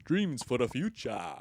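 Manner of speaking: a hint of South African guy dreaming; South African accent. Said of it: "schizophrenic South African guy who is white".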